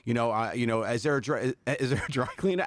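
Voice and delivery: a hint of flustered assistant; fretting caller, lightly voiced; panicked assistant. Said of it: "I would talk in that voice".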